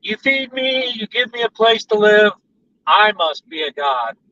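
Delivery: a hint of a smug cat; self-important cat. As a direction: play a cat sure of its own divinity. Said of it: "a cat says".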